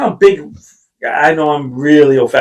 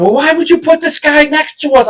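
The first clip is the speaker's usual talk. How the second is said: mock whiny complaint; 12 semitones higher than usual. Complaining to ride staff.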